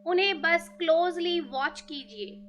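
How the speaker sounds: measured meditation voice with long pauses; guided meditation. Real, not acted. Teacher asking listeners to thank each breath, measured guided meditation. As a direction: guide listeners phrase by phrase, leaving space between.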